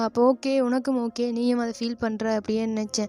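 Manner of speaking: put-on loud, heated promise to his crying boyfriend; loud earnest outburst. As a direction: swear it to him at full volume. Heated self-justification to partner.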